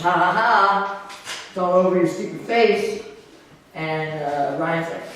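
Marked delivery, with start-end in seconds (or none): 0.0-3.0 gloating. Acted. Prankster jeering at his victim from round the corner, gloating. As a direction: crow over a prank that worked.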